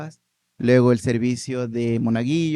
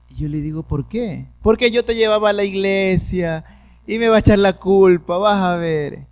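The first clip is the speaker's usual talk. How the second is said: put-on higher, louder, fretful old woman; worried grandmother; 6 semitones higher, 5 dB louder than usual. Grandmother crying to grandson that his mother will blame her. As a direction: lament like a grandmother who knows she'll be blamed.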